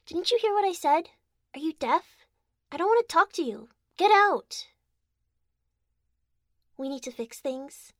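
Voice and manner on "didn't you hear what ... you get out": loud, high furious yelling at her partner; angry shouting. Acted. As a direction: yell him out of the room, higher and louder. Angry partner throwing him out.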